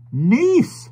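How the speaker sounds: put-on old stranger's voice. A narrator's reading. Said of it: "said the stranger".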